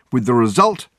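lightly voiced pompous lecturer; grandiose detective. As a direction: carry on grandly.

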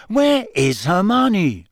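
impatient searching. A narrator's reading. Ron searches the crowd for Hermione.

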